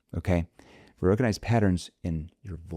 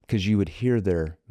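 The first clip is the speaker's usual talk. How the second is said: ordinary talk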